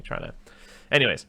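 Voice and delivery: normal talking voice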